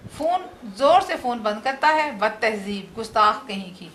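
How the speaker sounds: lively comic play read aloud with light character voices; comic drama read for students; dramatic reading. Acted. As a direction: read the play to the class, bringing husband and wife to life. Teacher reads a comic drama aloud.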